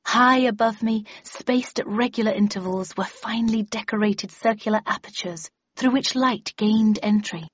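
confident, projected recitation; expressive reading aloud. A narrator's reading. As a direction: read it out with full inflection. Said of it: "expressive and expansive".

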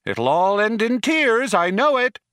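high, wailing matronly shout. A narrator's reading. Computer calls after the departing crew, shouted warning. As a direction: call after them in a high voice. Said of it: "shouted Eddie after them".

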